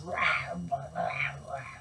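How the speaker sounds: breathy roaring growl sound. Acted. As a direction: growl like a bear. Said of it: "and snarls".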